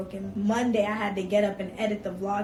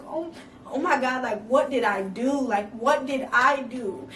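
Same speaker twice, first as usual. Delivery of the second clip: louder, frantic questioning; rising panic; 4 semitones higher, 5 dB louder than usual. Retold or imitated. Woman watching him speed to her, loud and panicked. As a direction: let the dread take over.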